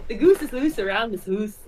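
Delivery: a Scottish accent attempt; a learner's Scottish accent. Shown as a demonstration. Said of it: "Try it".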